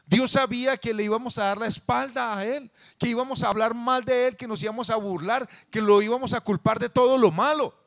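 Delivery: loud, high, impassioned sermon voice; fervent preaching. Acted. Pastor preaching passionately to his congregation. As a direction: preach it with rising fervor.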